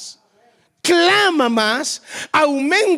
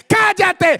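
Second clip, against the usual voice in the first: a higher, louder shouted hush; crowd hushing him; 7 semitones higher, 4 dB louder than usual. Acted.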